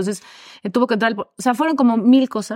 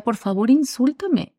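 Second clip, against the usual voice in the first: quoting therapist, pleading; 3 semitones higher, slower than usual. Retold or imitated. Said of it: "me decía".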